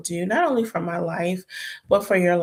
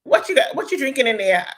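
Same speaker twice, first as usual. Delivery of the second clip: lightly mimicked cashier, pitched up and louder; imitated cashier; 7 semitones higher, 5 dB louder than usual. Retelling a cashier asking about her drink, imitated cashier. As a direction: quote a nosy question, higher and loud. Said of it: "the cashier was like".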